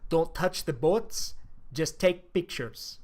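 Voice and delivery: low-key order given quietly to the crew; hushed orders. Retold or imitated. Captain quietly instructing the crew.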